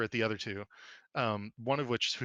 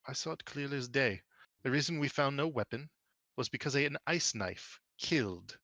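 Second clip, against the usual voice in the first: lightly voiced, deliberate official; measured testimony, slowing at the end; composed authority; 4 semitones higher than usual. Tenora speaks up about the killing, composed and authoritative.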